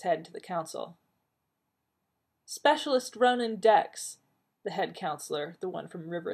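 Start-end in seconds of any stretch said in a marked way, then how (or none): 2.5-4.2 slow, loud announcement across a field; clear, carrying voice. A narrator's reading. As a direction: announce the name so the whole crowd hears it. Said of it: "said in a clear, carrying voice".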